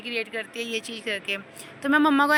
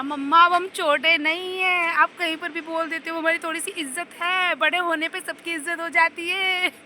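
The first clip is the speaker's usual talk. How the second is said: indignant protest; 4 semitones higher, 4 dB louder than usual. Retold or imitated. Daughter protests to mother.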